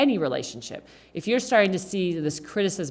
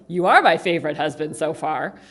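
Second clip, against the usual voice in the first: sarcastic; 5 dB louder than usual. Retold or imitated. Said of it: "when I say to my husband".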